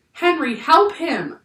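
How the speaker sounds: high, loud, slow begging; narrated sobbed plea. A narrator's reading. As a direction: plead as if near tears. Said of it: "she sobbed".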